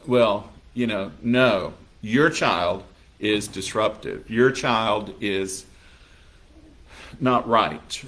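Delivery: low, soft, slow and judgmental; a prim member lightly mimicking disapproval; disapproving churchgoer. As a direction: scold the parents quietly. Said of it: "rather than saying".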